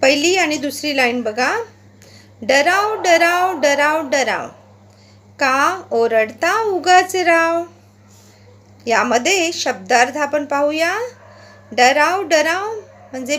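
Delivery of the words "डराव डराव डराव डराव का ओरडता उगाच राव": slow, sing-song poem reading with a swinging rhythm; poem recitation. Acted. Teacher reading the frog poem aloud to pupils, rhythmic recitation. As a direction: recite it aloud for the class to follow, stretching the croaks.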